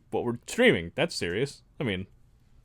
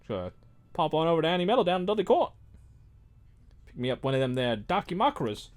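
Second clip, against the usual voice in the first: put-on British accent; 4 semitones higher, faster than usual. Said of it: "It started Australian".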